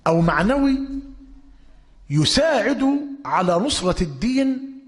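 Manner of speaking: fiery sermon admonition; forceful warning. Real, not acted. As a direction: drive the warning home with force. Preacher warns audience.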